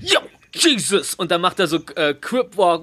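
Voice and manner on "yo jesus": imitating Servant Mike. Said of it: "der so die ganze Zeit so".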